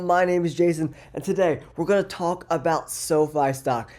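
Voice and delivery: stuffy nose from a cold; nasal voice. Real, not acted. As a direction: talk through a blocked, nasal nose. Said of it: "Excuse my nasally voice".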